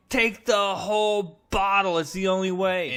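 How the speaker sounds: a villain tempting his host to overdose; Carnage urging. Retold or imitated. Carnage urges Eddie to swallow every pill, high and monstrous. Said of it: "Carnage kicks in".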